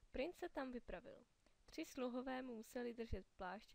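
ordinary delivery, nothing marked

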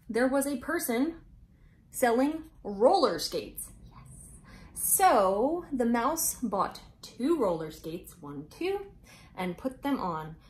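lively storybook read-aloud with big pauses; reading to children. A narrator's reading. Host reading Mouse Tales to young viewers, bright storytelling voice. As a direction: read it out like story time for little kids.

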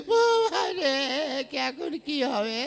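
high wailing বাবা রে, half crying; comic despair cry; mock wail. (হতাশায় আধা-কান্নার সুর)

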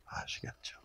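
whispered aside to the audience. Real, not acted. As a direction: lean in and whisper it. (청중에게 속삭이는 말)

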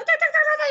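high quick tac tac typing noise; typing sounds. Shown as a demonstration. Teacher mimics typing replies to students, high and quick. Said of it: "estoy con tac".

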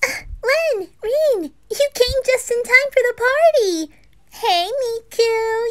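put-on high excited girl voice welcoming guests; cheery anime girl. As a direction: greet your friends at the door, beaming. Host girl greets party guests.

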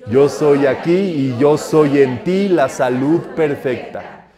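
slow, measured "Yo soy aquí", every word drawn out; decree recitation. Shown as a demonstration. Teacher asking how it goes, slow chanted decree. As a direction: intone it slowly, leading the group. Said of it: "¿Cómo es?".

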